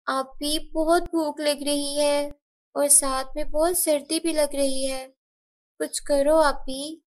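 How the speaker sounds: a touch of tearful pleading; tearful plea. Acted. Little sister hungry and cold at night, tearful. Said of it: "सीमा रोते हुए कहती है".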